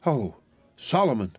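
high, drawn-out cry of recognition; overjoyed exclamation, slow on the name. A narrator's reading. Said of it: "cried Miss Pross".

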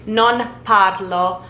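very slow "Non parlo", ending on o; slow Italian. Shown as a demonstration. Teacher showing "parlo" for yourself, slowly. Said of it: "you would say".

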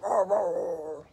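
low-throated imitated bellow; bellowing walrus. Shown as a demonstration. Showing children how bellowing sounds, drawn-out bellow. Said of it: "bellowing sounds like?".

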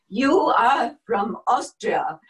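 put-on loud, firm declaration with Austrian accent. Office worker facing the Nazi officer, loud Austrian accent. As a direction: stand up to him in an Austrian accent, drawing out "You". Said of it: "let all the Dutch accent fall out".

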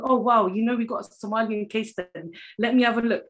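put-on a girl thrilled to spot her own country; excited pupil. Pupil excited to find Somalia.

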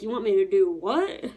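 put-on a girl who can't believe what she's asked to do; mock shocked "go look for what?", climbing high; incredulous girl. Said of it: "She was probably like".

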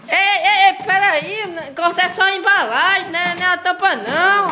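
alarmed call. Real, not acted. Alarmed stopping him.

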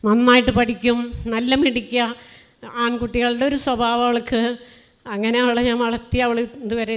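loud, proud praise of her daughter; proud outburst. Real, not acted. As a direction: burst out with a mother's pride.

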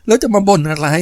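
laughing. A narrator's reading. Nam-Op laughs at Saman's complaint, high and teasing. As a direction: laugh him off mockingly. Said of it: "หญิงสาวก็หัวเราะ".

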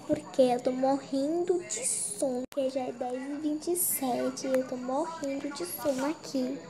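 sleepy, half-awake delivery. Real, not acted. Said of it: "Você deve estar estranhando minha voz".

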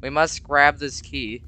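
slow, lightly voiced solemn priest; a touch of grave resolve. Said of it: "I don't know why my voice got lower".

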